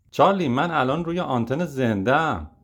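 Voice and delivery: a touch of irritation, kept mild; snapping back. Acted. Alfonso to Charlie mid-broadcast, mildly snappy. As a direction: push back a little, understated. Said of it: "آلفونسو با پرخاش گفت".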